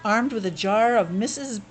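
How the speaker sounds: steady read-aloud storytelling voice; story narration. Acted. Parent reading Paddington to a child, storytelling voice.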